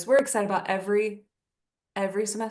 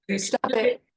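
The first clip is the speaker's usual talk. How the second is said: laughing; 3 semitones higher than usual. Real, not acted. Teasing back, laughing.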